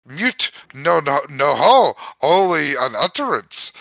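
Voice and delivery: put-on reading gibberish in an Irish accent; lilting Irish accent, storybook reading. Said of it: "now I'm fucking doing the Irish".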